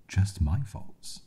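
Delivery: slow, high, drawn-out disbelief; slow incredulous. Acted. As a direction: stretch it out in bitter disbelief. Incredulous echo, slower.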